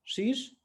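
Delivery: शीश very slow, the x said as श; Portuguese x. Shown as a demonstration. Teacher draws out the Portuguese name of x. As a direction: stretch शीश slowly for the letter x. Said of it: "ये एकदम अलग है".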